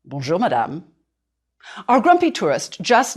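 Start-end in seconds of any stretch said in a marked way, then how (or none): 0.0-0.8 low, firm, curt greeting; a stern conductor correcting her; lightly voiced stern conductor. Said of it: "rather firmly".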